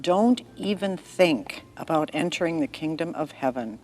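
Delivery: gentle storyteller reading a bible story; story narration. A narrator's reading. Narrator telling a child-friendly story to listeners. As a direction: read it like a bedtime tale for children.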